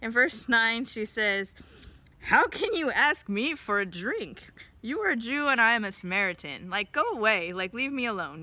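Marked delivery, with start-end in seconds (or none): 2.2-8.4 mildly mock the stranger asking for water; brash retort. Woman at the well brushing off Jesus, mildly brash. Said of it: "some mild insults his direction and just kind of, like, being a little brash".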